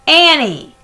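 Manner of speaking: high, loud alarmed call; warning shout. A narrator's reading. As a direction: stop her, too late. Jack warning Annie.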